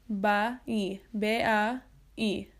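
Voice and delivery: ba-i drawn out slowly in two parts; slow syllable demo. Shown as a demonstration. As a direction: stretch ba-i into two slow sounds. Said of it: "Con un I dicho muy rápido".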